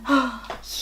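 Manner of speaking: breathy surprised gasp; quick delighted intake of breath; soft gasp. Real, not acted. Gasps at the dramatic lashes.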